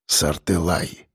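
low, slow one-word answer; коротко, низким голосом; curt old man. A narrator's reading. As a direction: give the name short and low. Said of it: "коротко ответил старик".

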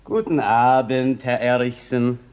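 ceremonious greeting. Acted. Beggar greets his patron at the door, ceremonious. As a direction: greet him like a ritual recital.

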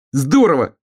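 high, loud hare; excited shout. A narrator's reading. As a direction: cry out with delight, pitched high. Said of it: "закричал заяц".

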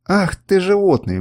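high, slow, drawn-out angry exclamation; narrated outrage, short of a full scream; beside herself. A narrator's reading. Phyllis berating the warrior, beside herself. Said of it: "вне себя закричала Филлис".

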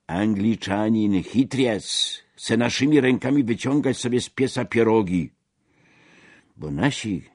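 orator rallying the workers, rising on slogans; lightly acted revolutionary oration; dynamic agitator's speech. A narrator's reading. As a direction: deliver a rousing political speech with measured pauses. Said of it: "Było to dynamiczne przemówienie".

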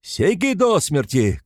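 high, slow raging yell; furious shout. A narrator's reading. Mikolka orders the beating, high furious yell. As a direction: roar the order. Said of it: "кричит Миколка".

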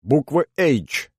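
high, slow squeak of alarm; пискнуть «Буква H» высоко и протяжно. Acted. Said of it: "пискнула она". (пискливо, с испугом)

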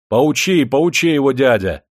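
loud, high egging on; approving shout. Acted. Crowd loudly urges the old man on. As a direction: cheer him on. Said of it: "одобрительно закричали кругом".

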